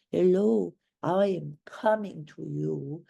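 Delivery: lightly attempted Russian accent; Arkadina, Russian accent. Shown as a demonstration. Demonstrating her impersonation from The Seagull, attempted Russian accent. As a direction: have a go at a Russian actress's accent. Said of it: "I was trying to impersonate Arkadina".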